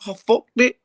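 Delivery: high, laughing give-up; mock defeated laugh; laughing resignation. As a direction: laugh it off and shrug. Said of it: "I'm like".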